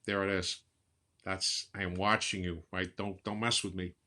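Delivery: a hint of a menacing gangster; mild mock wise guy warning; Robert De Niro impression. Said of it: "I'm talking like Robert".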